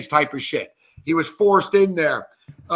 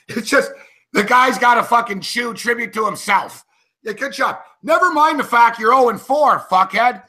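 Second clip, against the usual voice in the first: exasperated, higher-pitched rant; worked up; 4 semitones higher than usual. Real, not acted. Host berating a player over his tribute shoe, pissed off. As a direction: scold the absent player, getting heated. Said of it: "I'm getting worked up".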